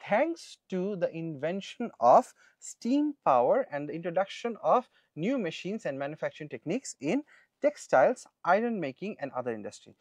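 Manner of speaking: slow, careful reading of a passage; teacher reading an exam passage slowly; reading aloud. Shown as a demonstration. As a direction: read the text out word by word for students.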